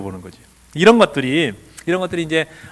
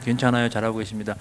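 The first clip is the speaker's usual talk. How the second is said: soft reassurance; 5 semitones lower, 6 dB quieter than usual. Shown as a demonstration. Modelling reassurance for audience.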